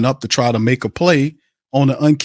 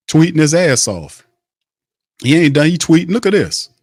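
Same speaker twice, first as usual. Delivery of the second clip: excited; 4 semitones higher than usual. Real, not acted. Gleeful about the tweets.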